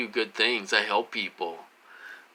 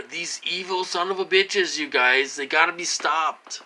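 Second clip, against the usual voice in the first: higher, angry outburst at enemies; 6 semitones higher than usual. Real, not acted. Telling viewers about the people he blames, angry and higher. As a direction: spit out the anger.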